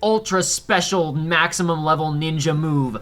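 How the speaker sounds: lightly voiced excited ninja girl; a hint of a hyped-up Yuffie; Yuffie impression. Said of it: "Yuffie says something like".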